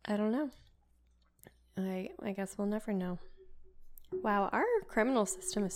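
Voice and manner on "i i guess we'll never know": whisper. Real, not acted. Whispered musing.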